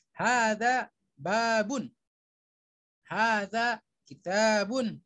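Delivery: slow, careful Arabic reading with every vowel length held; slow model reading. Shown as a demonstration. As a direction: read each word slowly for the class to copy. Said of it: "saya akan minta satu persatu untuk membacanya seperti saya baca". (bacaan pelan dan jelas untuk ditirukan)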